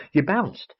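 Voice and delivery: a lightly voiced little girl, lively and curious; little girl quizzing the owl, lightly voiced; chatty little girl. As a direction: chatter like a bossy, curious schoolgirl. Girl's voice in the story.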